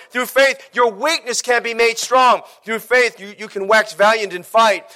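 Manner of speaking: driving, rhythmic sermon refrain; impassioned preaching. Real, not acted. Preacher rallying the congregation through a list of faith, impassioned. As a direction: hammer out each line of the litany.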